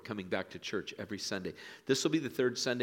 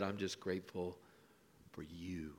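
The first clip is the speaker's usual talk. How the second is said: softer, fading into a whisper; soft whispered thanks; 3 semitones lower, 9 dB quieter than usual. Pretend. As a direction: murmur it like a warm secret. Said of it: "just smile at 'em and wink and say".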